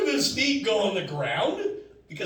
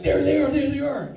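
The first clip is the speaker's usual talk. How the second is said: friend urgently whispering in my ear; eager quick repeat, pointing them out; excited hissed pointing out; 10 semitones higher, 5 dB louder than usual. Retold or imitated. Friend in ear spotting the ladies, excited.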